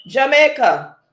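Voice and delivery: high, loud country reveal; excited announcement. Real, not acted. Host announcing Jamaica to the quiz players. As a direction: call out the name with excitement.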